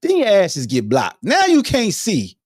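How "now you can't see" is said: gloating taunt. Acted. Gloating about blocking trolls.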